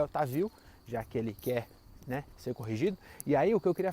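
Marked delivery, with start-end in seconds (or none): 0.0-0.5 "Otávio" errado de propósito, o-ta-VI-o; tônica no VI. Shown as a demonstration. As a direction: chamar "Otávio" com a força no VI. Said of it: "vou chamar ele de André Otávio". ("Otávio" dito "Otavíu", como sem acento)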